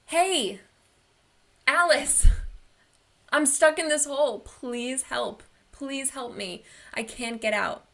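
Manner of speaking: high, loud call that sinks into pleading; shouting to a friend. Retold or imitated. Stuck person calling up to friend Alice, loud shout then pleading. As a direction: yell her name up out of the hole, then beg. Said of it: "the person shouts out".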